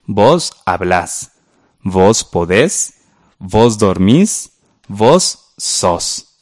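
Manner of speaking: slow, stressed final syllables "hablás", "podés", "dormís"; teacher modelling voseo slowly; slow model reading. Shown as a demonstration. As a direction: read the vos forms slowly, stressing the last syllable. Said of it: "Leamos de manera horizontal".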